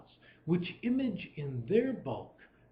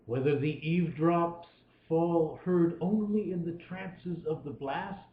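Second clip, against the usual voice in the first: measured, lilting recitation of verse; poem reading; 3 semitones higher than usual. Acted. Lecturer reading Coleridge to his students, measured recitation. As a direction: let each line ring out like a poem. Reads poem aloud to class.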